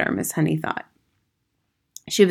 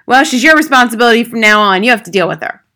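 loud, higher-pitched dismissive father; brusque father; 5 semitones higher, 10 dB louder, faster than usual. Acted. Father to his daughter's teacher at the door, brusque. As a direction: demand it loudly and scornfully.

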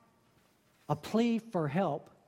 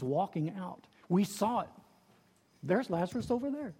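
amazed witness; 4 semitones higher than usual. Acted. Witness excitedly retelling the miracle.

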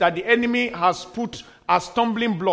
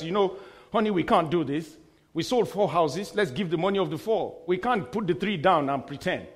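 softly voiced, lightly acted objection; gently reasoning wife; 2 semitones lower, 5 dB quieter than usual. Wife reasoning with husband over money, soft acted reproof. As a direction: quietly talk your husband out of it.

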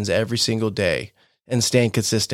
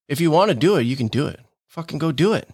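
booming motivational speech; 3 semitones higher than usual. Real, not acted. Pep talk urging listener to act.

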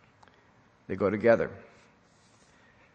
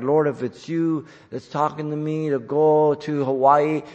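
lightly imitated naive believer praying; a hint of put-on pleading, held on a level tune; mock prayer; 3 semitones higher than usual. Preacher imitating people who shoot up prayers, lightly mocking. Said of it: "they shoot up prayers like".

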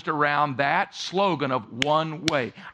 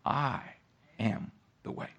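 quiet reply; 3 semitones lower, 8 dB quieter than usual. Retold or imitated. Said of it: "And Jesus' response".

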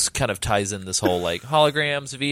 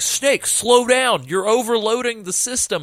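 mock panicked radio operator; 12 semitones higher than usual. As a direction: whine the warning like a nervous tech. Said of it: "they're like".

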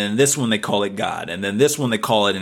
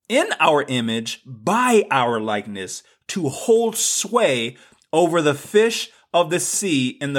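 slow, weighty Bible verse reading; scripture reading; 3 semitones higher, slower than usual. Acted. Podcast host reading Genesis to listeners, slow and emphatic. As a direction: read it out deliberately, leaning on key words. Reads scripture aloud deliberately.

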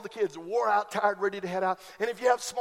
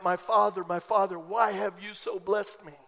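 grateful cry. Retold or imitated. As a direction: let it fall gently in thankful wonder. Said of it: "so that you and I can cry out".

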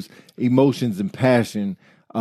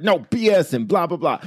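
higher-pitched mock hype rant; 4 semitones higher than usual. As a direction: pretend to get worked up. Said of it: "getting hype in my voice".

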